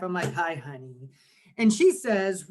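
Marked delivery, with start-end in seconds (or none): 0.3-1.1 lower, at-home greeting to a spouse; work voice dropped. Acted. Husband greeting his wife, work voice put away. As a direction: drop the phone manner, greet your wife. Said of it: "Put your work voice away".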